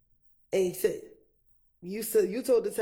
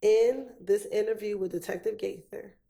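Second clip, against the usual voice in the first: deliberate, phrase-by-phrase repeat; separated phrases. Real, not acted. Lawyer repeats the question for a confused witness, separating each phrase. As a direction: question broken into chunks with long pauses. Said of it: "I'll repeat it one more time and I'll separate it".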